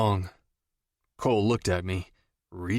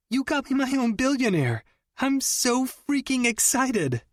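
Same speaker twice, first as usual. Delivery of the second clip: giddy squeal. A narrator's reading. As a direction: gush like you just won a prize. Jenny squealing with excitement.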